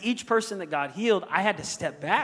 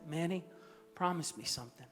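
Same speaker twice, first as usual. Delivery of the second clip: 1 weak dying plea; 12 dB quieter than usual. Retold or imitated. Dying wife speaks from hospital bed.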